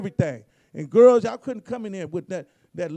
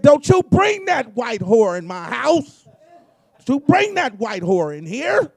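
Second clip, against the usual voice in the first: slow, loud Southern country grandma yelling; mock an old Southern country grandma, drawn out and loud; loud country-accent grandma refusing entry; 3 semitones higher, 8 dB louder than usual. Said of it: "she had that country accent".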